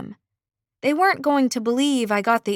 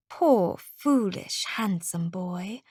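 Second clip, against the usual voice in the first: pitying sigh; 3 semitones lower, 4 dB quieter, slower than usual. Acted. Pitying the prince.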